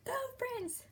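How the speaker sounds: soft whispered "Go France!"; whispered cheer. Retold or imitated. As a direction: cheer France under your breath. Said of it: "and I'm".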